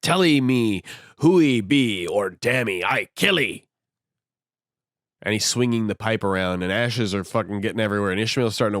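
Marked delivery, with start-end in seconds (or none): 0.0-3.7 mock pidgin threat. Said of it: "And Queequeg's like".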